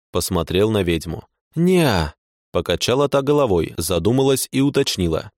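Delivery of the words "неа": playful tipsy no. A narrator's reading. Witch voice.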